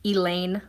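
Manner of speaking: "Elaine", ending to rhyme with lane; "Elaine" with a long ay in the last syllable; mispronounced name. Shown as a demonstration. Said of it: "So I get called".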